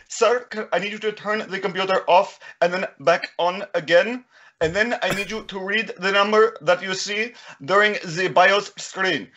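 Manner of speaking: put-on Indian accent. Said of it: "pulls India".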